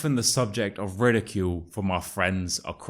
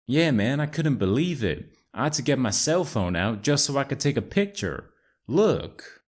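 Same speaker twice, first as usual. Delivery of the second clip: put-on American accent; 5 semitones higher than usual. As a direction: play Chad, an American bro. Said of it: "my amazing American accent".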